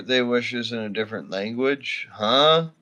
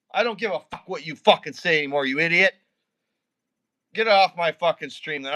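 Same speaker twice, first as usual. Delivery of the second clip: fast, higher furious tirade; angry rant; 4 semitones higher than usual. Real, not acted. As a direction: spit it out quickly in real anger. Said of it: "You really got me mad now".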